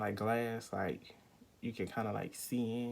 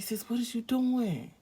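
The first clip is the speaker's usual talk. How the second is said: high unvoiced whisper of disbelief; 12 semitones higher, 4 dB louder than usual. Whispering toward the stranger at the door in disbelief. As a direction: hiss it through the door in disbelief.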